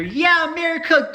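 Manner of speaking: high, loud cartoonish patriot cheer; mocking gun-lover voice. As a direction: ham up a proud gun-loving patriot.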